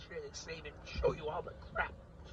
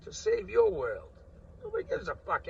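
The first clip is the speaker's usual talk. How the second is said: high bitter cry; 9 semitones higher, 12 dB louder than usual. Real, not acted. Bitter complaint about sacrifice.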